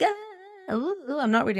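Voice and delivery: high-pitched whine of cold feet; mock reluctant wail. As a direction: squeal and balk like a nervous client. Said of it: "And they're like".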